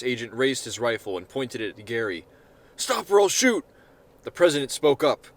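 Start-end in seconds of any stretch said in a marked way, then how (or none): 2.8-3.6 shouted threat. Acted. Agent aims rifle at Gary.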